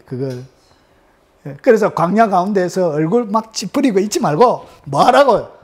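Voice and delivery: ordinary delivery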